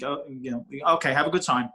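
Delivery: put-on lightly done Boston accent; security guard's Boston accent. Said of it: "I talk in a Boston accent".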